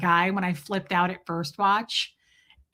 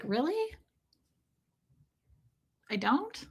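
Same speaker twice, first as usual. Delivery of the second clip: soft, coy little question; flattered disbelief; 6 semitones higher, 8 dB quieter than usual. Retold or imitated. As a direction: ask softly, suddenly disarmed. Disarmed, flattered by the man's remark.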